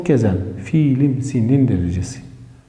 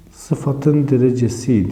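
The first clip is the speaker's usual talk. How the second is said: slow dictation; slower than usual. Shown as a demonstration. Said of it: "yazıyorum".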